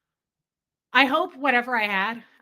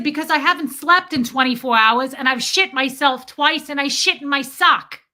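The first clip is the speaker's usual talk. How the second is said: loud, raised, mock Brooklyn tirade; mocking Brooklyn accent; 4 semitones higher, 8 dB louder than usual. Retelling her blowup at the man, mock Brooklyn accent. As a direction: fire it off in a put-on Brooklyn accent. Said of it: "I totally did his accent".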